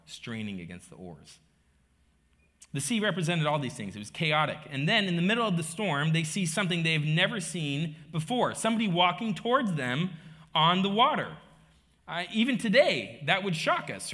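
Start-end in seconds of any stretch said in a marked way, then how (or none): 2.7-14.1 preaching that builds louder and higher; impassioned preaching. Acted. Preacher retells the storm to the congregation, building in intensity. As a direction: build the drama with raised, driving voice.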